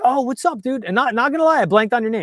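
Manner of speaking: high-pitched, animated hello; retold friendly greeting. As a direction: greet him brightly, pitched well up. Acting out a greeting, sheepish excuse.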